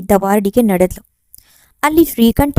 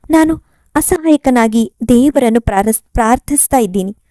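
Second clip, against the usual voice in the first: put-on louder, pleading young man's voice; anguished son; 4 dB louder than usual. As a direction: lay out his helplessness, pressing hard. Chandu tells of dying father. (ಅಸಹಾಯಕ ಮಗನ ದನಿ, ಜೋರಾಗಿ)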